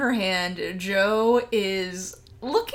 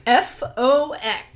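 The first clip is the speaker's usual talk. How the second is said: slow letter-by-letter spelling, a hint of menace; lightly voiced smug villain spelling his name; menacing spelling; 2 semitones higher, 3 dB louder than usual. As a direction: spell it out slowly like a threat. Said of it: "as he spells out his name again".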